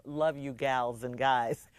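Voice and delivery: put-on slow, drawn-out, old-fashioned greeting; quaint sign-off. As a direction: read it like a sweet old-timer, slowly. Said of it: "Who talks like that?".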